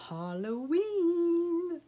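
high, slow, drawn-out squeal of delight; Carol gushing. Retold or imitated. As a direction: stretch it out like an excited sister. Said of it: "If my sister Carol was on here".

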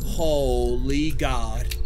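low, very slow drawn-out words; appalled disbelief. Real, not acted. Player appalled by reload time, slow disbelief. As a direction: drag each syllable out in dismay.

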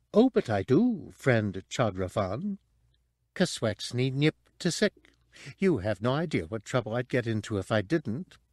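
lightly voiced prim droid; prissy protocol robot; fussy droid voice. Droid speaks.

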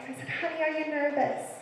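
ordinary talk

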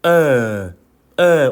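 lightly voiced village fool's drawn-out vowel; dopey low 'eh' to demonstrate a sound; a hint of the neighbourhood simpleton. Shown as a demonstration. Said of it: "동네 바보 하면서 떠올리면서".

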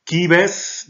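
loud, high-pitched Latin announcement; reading Latin aloud. Real, not acted. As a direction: call out the Latin word to the class. Teacher reads Latin text aloud.

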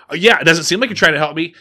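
fast sarcastic jab; sarcastic taunt. Retold or imitated. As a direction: needle him, quick and snide. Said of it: "And he's like".

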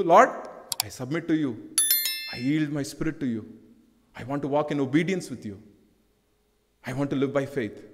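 a gentle whispered-close prayer to the Lord; quiet prayer. Acted. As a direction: pray it softly, yielding. Preacher voices a surrendering prayer.

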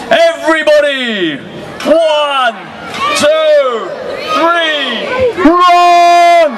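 building countdown, big shout on run; rally the crowd, then shout run. Real, not acted.

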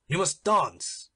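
a nobleman ordering the dwarf slowly; stern uncle. Acted. Don Pedro commands the dwarf.

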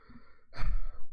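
heavy sigh pushed out loud; loud exasperated sigh. Real, not acted. Exasperated at the cat.

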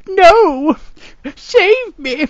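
high frantic cries for help; panicked shrieks. Acted. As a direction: scream for rescue in panic.

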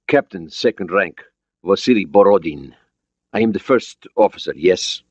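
put-on lightly Russian-accented English; measured introduction with a slight Russian accent; foreign accent. Borodin introducing himself to the American, Russian accent. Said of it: "He had an accent, but his English was understandable".

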